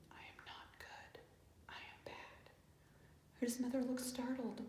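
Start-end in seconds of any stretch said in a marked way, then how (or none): 0.1-2.5 soft unvoiced whisper. A narrator's reading. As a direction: breathe it out as a guilty secret. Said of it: "he whispered".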